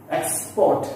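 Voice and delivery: "Export" with PORT strong; stress on second syllable. Shown as a demonstration. Teacher demonstrating verb stress, second syllable strong. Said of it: "we give stress on the second part".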